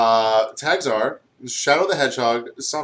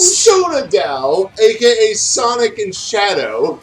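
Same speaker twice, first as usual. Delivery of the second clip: laughing; 9 semitones higher, 8 dB louder, slower than usual. Real, not acted. Still laughing reading ship names.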